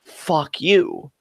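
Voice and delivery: deliberate, weighty curse without shouting; seriously meant. Real, not acted. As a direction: set it apart and truly mean it. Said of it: "But no, no, seriously".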